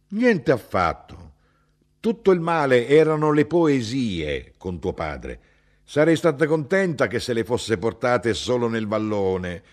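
put-on a heated old Sicilian mother correcting her son; mother's voice, indignant.

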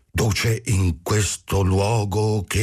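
solemn, drawn-out salutation; ceremonious address. A narrator's reading. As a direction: proclaim it slowly to the leader, then break off. Madman solemnly reading out his memorial.

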